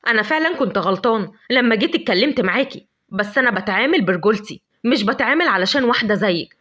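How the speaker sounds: angry. Acted. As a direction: scold her rudeness, then storm off. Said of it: "اتعصب جدًا".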